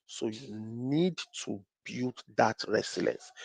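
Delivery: slow, hushed, weighty motivational line; booming motivational speech. Acted. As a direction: lean in and preach it slowly. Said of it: "I may be sounding like a motivational speaker".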